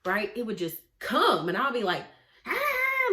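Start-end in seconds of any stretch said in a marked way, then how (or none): 2.5-3.1 high-pitched mock yelling noise; imitated yell. Imitating herself yelling at partner, mock yell. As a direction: let out a high, drawn-out "ah" as if snapping. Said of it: "like yelling at Taiwan".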